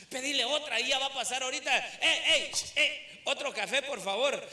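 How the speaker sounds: laughing, fast card-game banter; mock wake guests calling for coffee; lightly voiced casual mourners; card players at wake.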